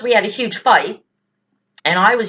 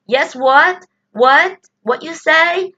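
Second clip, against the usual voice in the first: high, confused Indian-accent put-on; 8 semitones higher, 3 dB louder, slower than usual. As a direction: mimic a baffled agent asking what. Mocking confused call center agent.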